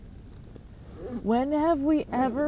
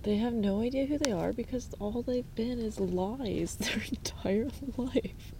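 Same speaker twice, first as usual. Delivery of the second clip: whispered, much softer; whispered aside; 9 dB quieter than usual. Real, not acted. Confiding a harsh verdict on the kids, whispered. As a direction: lean in and whisper it like a secret.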